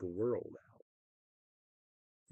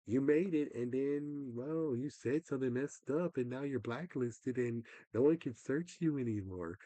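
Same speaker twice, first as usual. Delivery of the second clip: higher, sarcastic sing-song mimicry; mock the platform's fake cheer; mocking YouTube; 5 semitones higher, 4 dB louder than usual. Imitating YouTube telling him he's blacklisted, sarcastic.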